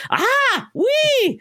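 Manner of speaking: high, squeaky battle yelps; Link's grunts. Retold or imitated. Imitating Link's wordless battle cries, high and squeaky. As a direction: yelp like a wordless hero. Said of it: "Link has only said".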